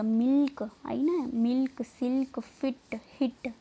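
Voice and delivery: मिल्क, सिल्क, फिट, हिट with a short "ih"; word list with short "ih" as in मिल्क; short i demo. Shown as a demonstration. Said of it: "ई की sound देगा". (मिल्क, फिट, हिट में छोटी इ की ध्वनि)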